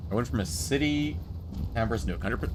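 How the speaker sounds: puzzled question, rising at the end; mildly baffled echo; incredulous repeat. Real, not acted. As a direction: echo the comment back in disbelief. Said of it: "Oh, you mean like this?".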